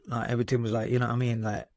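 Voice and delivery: lightly imitated London roadman slang accent. Recalling his younger self to the host, lightly put-on roadman accent. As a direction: slip casually into a mild roadman accent. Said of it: "I was some kind of, like, roadman".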